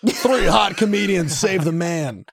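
fishing for credit, lightly played; mock glory hunter. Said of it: "Were you looking around and be like".

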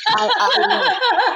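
high squeaky laugh through the words. Real, not acted. Laughing at herself while telling the host about the blunder. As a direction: laugh at your own awkward blurt.

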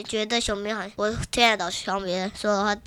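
talking with squished cheeks; pinched mouth. Real, not acted. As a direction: lips pinched together while speaking. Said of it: "你不要捏着嘴巴讲话". (捏着嘴巴讲话)

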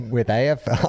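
mock Liverpool accent slipping into Churchill; badly faked Liverpudlian accent; terrible accent of a famous Liverpool band. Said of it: "I sound more like Winston Churchill".

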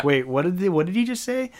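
mild puzzled surprise, rising high midway; retold double take. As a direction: act out a confused double take. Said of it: "I was like".

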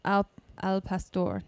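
al pastor said slow and careful; correct Spanish. Shown as a demonstration. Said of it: "correcting the pronunciation".

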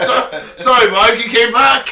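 high laughing apology; laughing hard while talking. Real, not acted.

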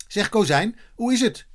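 high, lifted hailing voice; calling out. A narrator's reading. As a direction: hail someone with a question. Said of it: "riep Eddy".

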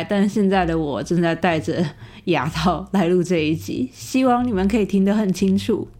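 speaking through new dental braces; words shaped around braces; talking with braces. Real, not acted.

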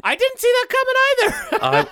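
high, laughing through words. Real, not acted. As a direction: laugh while saying it.

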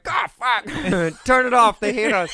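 high, loud mock panic at the driver. A passenger panics over the driver's podcast, high mock alarm. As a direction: squeal it like a trapped passenger.

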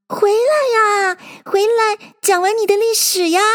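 long, high pleading call; calling after someone. A narrator's reading. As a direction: call someone back as they leave. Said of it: "追着嚷道".

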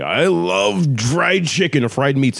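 high, slow, drawn-out Japanese accent. Shown as a demonstration. Coach translating his example, exaggerated Japanese accent. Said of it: "Japanese could be even, like, the same thing".

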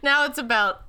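laughing, rising indignant protest; mock outrage. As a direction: play up the outrage. Mock outrage about Christmas curse.

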